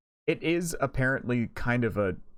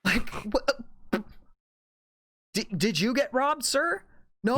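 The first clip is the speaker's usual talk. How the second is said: mocking outrage; 7 semitones higher than usual. Mocking Joker fans' outrage.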